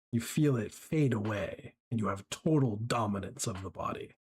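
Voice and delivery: slow, menacing scene-setting with heavy pauses; game master narration. Acted.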